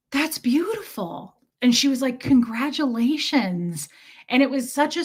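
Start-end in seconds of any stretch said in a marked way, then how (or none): 0.1-1.3 slow, higher-pitched imitation of heartfelt warmth; sincerely touched, acted out; warmly moved. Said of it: "the warmth and the, the change". 2.2-3.9 slow, heartfelt retold praise; gently drawn-out and earnest; warm congratulations. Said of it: "the warmth and the, the change".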